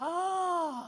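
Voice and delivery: high, drawn-out "aah" without much volume; mock cry, pitched well up; imitated shout. Lady patient cries out as the doctor comes near, mock shout. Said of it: "that lady shouted".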